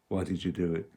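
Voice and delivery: a low, gentle question; quiet and gentle. Shown as a demonstration. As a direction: ask it gently, like a friend. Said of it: "So ask quietly, gently".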